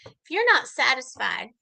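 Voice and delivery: lightly voiced sleazy flirt; mock come-on, lightly acted; self-styled ladies' man. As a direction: imitate a would-be seducer, with teasing pauses. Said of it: "he is God's gift to women".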